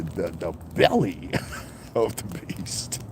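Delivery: slow ominous emphasis. Real, not acted.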